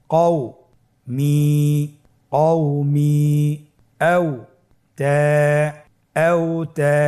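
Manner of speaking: slow broken-up word reading for repeating; syllable-by-syllable reading. Shown as a demonstration. Teacher has students read words broken into syllables, slow chant. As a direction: build each word syllable by syllable. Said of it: "আমার সাথে উচ্চারণ করুন".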